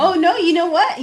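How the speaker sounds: high, laughing excitement. Real, not acted. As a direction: laugh through it, high pitched.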